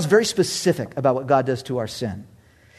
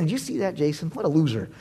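Satan sneering; 6 dB quieter than usual. Retold or imitated.

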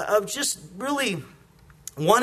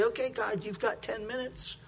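mock impatient; 2 semitones higher, 11 dB quieter than usual. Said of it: "we'll say".

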